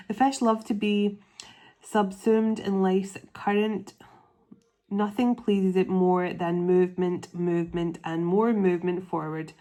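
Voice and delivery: emphatic read-aloud delivery. Real, not acted. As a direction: read the passage out clearly and firmly. Reads aloud from the animal book.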